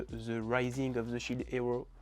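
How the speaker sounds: English title in a thick French accent; real French-accented English; bad English accent. Real, not acted. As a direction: stumble through the English with French sounds. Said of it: "Désolé pour mon accent anglais catastrophique".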